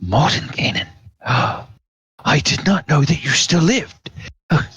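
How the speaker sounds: gasping, high-pitched disbelief; awestruck count. Acted. Count finding the mage still alive, gasping and awestruck. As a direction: stammer out amazed oh's after a gasp. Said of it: "the count says".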